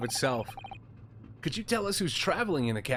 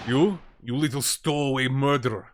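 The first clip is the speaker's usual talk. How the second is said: put-on Russian-accented sailor snapping in sudden anger; angry sailor; 6 dB louder than usual. Sailor rounding on a suspected stowaway, angry and loud. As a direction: bark it at the intruder.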